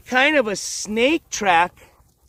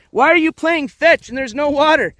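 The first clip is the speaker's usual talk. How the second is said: higher, puzzled questioning; mock-confused, pitched-up question; voicing confused dog; 5 semitones higher, 3 dB louder than usual. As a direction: speak up for a baffled dog. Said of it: "He's all confused. He's like".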